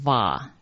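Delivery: 瓦 sounded as an open "va"; character read as "va". Shown as a demonstration. Teacher showing how 伐 is read, pronunciation demo. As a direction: demonstrate 瓦 as a drawn-out "va". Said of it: "伐这个字念成".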